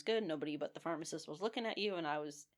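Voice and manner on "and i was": breathy happy whisper; soft whispered contentment. Real, not acted. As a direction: hush it like a secret joy. Blissful aside in her own booth.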